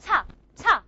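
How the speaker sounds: ta with a puff of air; ta with a little h after it; aspirated ta. Shown as a demonstration. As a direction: breathe hard right after the t of ta. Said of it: "a small puff of air coming out".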